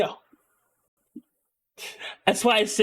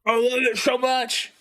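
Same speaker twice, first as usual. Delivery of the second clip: high-pitched, real gushing; gushing delight; 4 semitones higher than usual. Real, not acted. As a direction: burst out with how much you adore it. Gushing over the accent.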